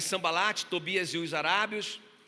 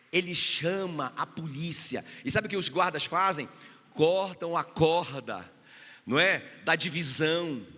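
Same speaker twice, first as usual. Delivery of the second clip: fiery preaching; 4 dB louder than usual. Acted. Pastor urging the congregation to stay united, preaching loud and fervent. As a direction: pound each phrase home to the church.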